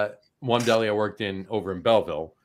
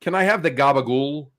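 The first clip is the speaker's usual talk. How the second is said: put-on plain phonetic "gabagool", no slang or accent; careful, accentless deli request; overly white customer. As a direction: order with no Italian intonation at all. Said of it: "so phonetically, no slang".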